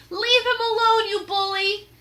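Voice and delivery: high, loud defiant yell; angry cry. Acted. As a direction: stand up to the bully. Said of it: "she cried".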